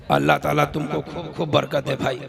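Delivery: low, soft blessing; quiet blessing. Real, not acted. Blesses a donor.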